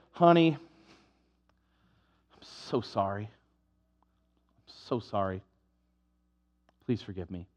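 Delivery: soft, slow, pleading fake sorry; mock grovelling apology. Husband pleading softly with his wife, hammed-up. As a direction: beg forgiveness like a guilty husband.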